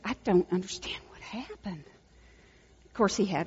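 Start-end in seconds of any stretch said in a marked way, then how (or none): 0.0-1.8 whispered student. Retold or imitated. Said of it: "and she said".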